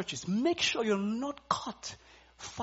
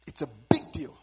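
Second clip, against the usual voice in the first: hushed whisper; 6 semitones lower than usual. Acted. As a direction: lean in and whisper it. Confides church matters.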